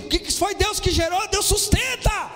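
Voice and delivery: loud, high, scolding-like outburst; heated preaching. Real, not acted. Preacher tells church to stop helping God, heated shouting. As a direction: shout it out, almost as if angry. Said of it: "Tô bravo não".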